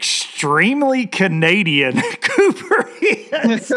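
high, drawn-out country drawl breaking into laughter; laughing mock country drawl; Sammy George. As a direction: imitate a country buddy, stretching it out slowly. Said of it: "this is exactly how he put it".

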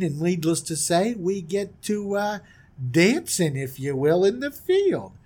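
lightly voiced ladies' man; brag, then pick your words coyly; swaggering yarn with a delicate euphemism; boastful prince. Prince resumes his tale.

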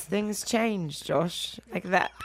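put-on English accent; affected English star explaining; mock-English celebrity voice imitating a singer. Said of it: "English accent, and now you do".

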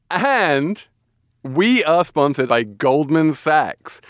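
upbeat sponsor read. Acted. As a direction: read it like a radio ad. Host reads sponsor ad.

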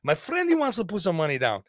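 a hint of a Greek father's accent on the phone. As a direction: loose Greek-accented dad asking about the game. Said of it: "in his Greek accent".

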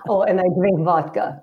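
put-on comic Russian accent; mock Russian accent. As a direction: toss it in with a fake Russian accent. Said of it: "Okay, Russian".

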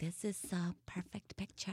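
soft, hushed inner nag; a quiet nagging voice in your head. Retold or imitated. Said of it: "nagging voice".

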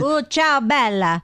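playful stage Italian; mock Italian greeting; Italian accent. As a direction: put on an Italian accent for fun. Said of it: "Followed by Italian".

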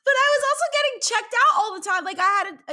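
high, loud laughing words; giggling through it, fast; laughing while telling. Real, not acted.

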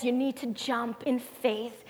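lightly voiced God, hushed and tender; a preacher voicing God softly to the doubter; gentle voice of God. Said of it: "God says".

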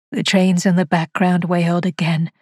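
usual speaking voice

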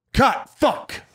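high-pitched retold cursing; mock frustrated outburst. Actor blowing his take on set, mock frustrated. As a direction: blurt it high, imitating an exasperated actor.

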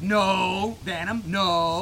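mock scolding, firm and loud; lightly acted reprimand; Eddie Brock. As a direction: tell it off like a misbehaving pet. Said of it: "he straight up is like".

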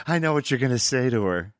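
brief giggle, then the line; imitated giggling. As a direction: play a director tickled by his own idea. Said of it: "he's still giggling".

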